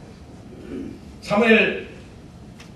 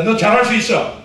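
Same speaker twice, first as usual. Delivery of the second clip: call to repeat. Shown as a demonstration. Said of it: "따라합시다".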